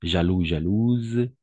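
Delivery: Jaloux then jalouse with the final z sounded clearly; slow teacher contrast of Jaloux and jalouse; careful contrast. Shown as a demonstration. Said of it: "attention à ces choses-là".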